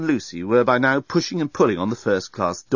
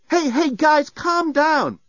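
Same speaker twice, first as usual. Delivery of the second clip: high urgent calming; soothing alarmed; 4 dB louder, much slower than usual. Acted. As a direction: settle them down fast. Nettie calming panic.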